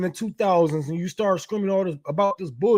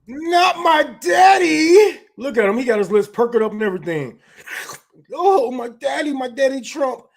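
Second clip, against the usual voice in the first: mock sobbing fan; 4 semitones higher, 4 dB louder than usual. Mocking a heartbroken fan with loud, high fake wailing. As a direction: ham up a grown man crying over his hero.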